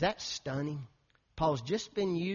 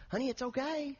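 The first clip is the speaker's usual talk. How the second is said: soft, higher comforting voice; gentle reassurance; 10 semitones higher, 5 dB quieter than usual. Retold or imitated. Pastor retelling how he comforted a crying young woman, gently. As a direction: soothe her tenderly.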